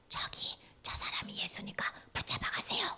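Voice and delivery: hushed, furtive tip-off; furtive betrayal. Acted. Judas pointing out Jesus to captors, furtive hush. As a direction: drop to a near whisper.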